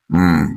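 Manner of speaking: low, tired hum of agreement; murmured assent; weary hum. A narrator's reading. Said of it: "Nadira മൂളി".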